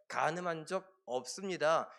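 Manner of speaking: ordinary talk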